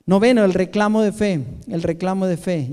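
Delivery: loud announced point; preacher calls out the point; preached heading. Real, not acted. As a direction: proclaim the heading with force.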